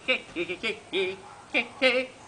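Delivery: short, choppy pig cries pushed a little harder; insistent imitated pig shouts, rising at the end. A narrator's reading. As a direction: squeal like piglets trying to be heard. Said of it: "más fuerte le gritaron".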